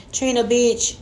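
playful fake warning with a laugh at the end; mock scolding. Host mock-scolding a letter writer. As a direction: pretend to tell her off, then crack up. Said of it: "No, I'm just kidding".

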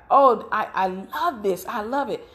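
imitated non-American accent of a delighted husband; fake foreign accent. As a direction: gush in a lightly faked foreign accent. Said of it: "I'm doing a fake accent".

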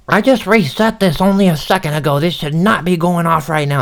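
hammed-up indignant old lady; mock irritated old woman. Old woman blaming him for the stove timer, mock high scolding. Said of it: "And she's yelling at me".

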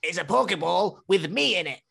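lightly voiced Sean, grandly offering help; mock-solemn offer, breaking into laughs; Sean impression. Sean offers Ethan his Pokeball, mock grand voice. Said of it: "my Sean impression".

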